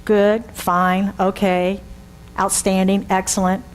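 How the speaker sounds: a hint of flat stock replies; programmed replies. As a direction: answer on autopilot. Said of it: "programmed responses".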